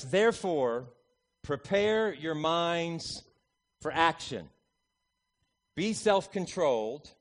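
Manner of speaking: slow, measured reading of the verse; scripture reading. Acted. Preacher reading the verse to his congregation, measured and slow. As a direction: read the verse with weight.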